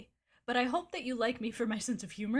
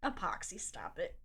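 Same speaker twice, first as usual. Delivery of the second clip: whispered scold; 3 semitones lower, 7 dB quieter than usual. Real, not acted. Telling pet Epoxy off.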